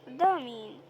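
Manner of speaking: قدها مين? shouted loud, falling at the end; loud challenging shout of قدها مين; loud mock challenge. Real, not acted. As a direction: call out قدها مين like a dare at the screen. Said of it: "يلا، احنا قدها".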